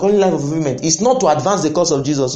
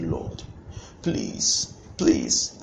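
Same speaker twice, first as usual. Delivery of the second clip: pleading wife; 3 semitones higher, 8 dB quieter, much slower than usual. Retold or imitated. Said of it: "The wife cried and said".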